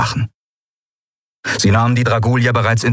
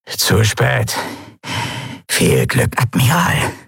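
ugly grin; 3 semitones higher, slower than usual. Acted. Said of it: "zeigte ein hässliches Grinsen".

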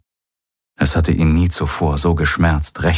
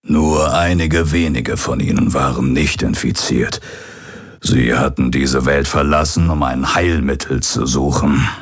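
put-on old pirate's recorded message. Hologram of the old pirate addressing his son, lightly voiced. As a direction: speak as the aging pirate father leaving a last message.

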